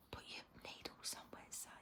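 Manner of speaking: a cold hushed reprimand, quick; bossy inner voice hissing an order; James scolding. Pretend. Inner voice James telling her off in a hush. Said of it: "that's James having a go at me again".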